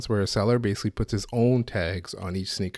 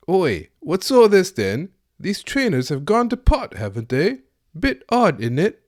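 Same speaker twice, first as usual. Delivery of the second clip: loud, high, hammed-up British accent with a bit of Australian creeping in; mock British accent; 10 semitones higher, 7 dB louder than usual. Podcaster playing a Brit who finds a fake, loud hammed-up British accent. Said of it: "Here's my impression of a Brit finding a fake from StockX".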